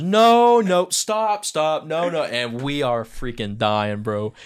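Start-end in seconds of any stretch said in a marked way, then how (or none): 0.0-2.2 mock alarmed teacher, high and loud; teacher cutting in. Teacher stops the student's misread line, mock alarmed shout. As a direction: stop him fast, half laughing. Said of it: "Mister Austin goes".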